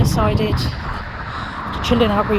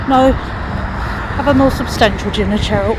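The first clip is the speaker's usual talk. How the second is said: slower, firm telling-off to herself; stern self-scolding; 4 semitones higher, 9 dB louder, slower than usual. Retold or imitated. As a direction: scold yourself like a strict parent.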